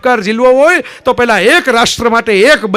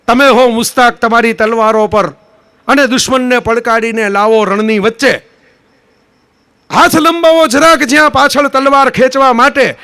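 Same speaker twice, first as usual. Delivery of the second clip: poem recitation. Acted.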